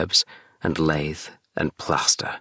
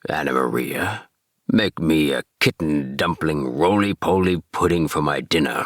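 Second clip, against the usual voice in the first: put-on old man rat. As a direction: order dinner like a greedy old rat. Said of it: "said the old man rat".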